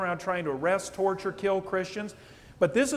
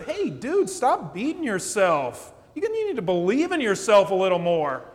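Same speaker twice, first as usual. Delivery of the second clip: breezy mock advice; 2 semitones higher, 6 dB louder than usual. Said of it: "what if you'd have gone up to him and said".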